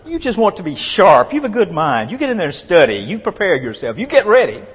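high, emphatic voice of an imitated wife; punchy mock-wifely urging, high and insistent; imitating wife. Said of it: "She said".

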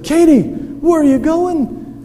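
high, slow puzzled Luther voice; a startled husband asking; Luther voiced. Husband asks his wife where she's going, puzzled.

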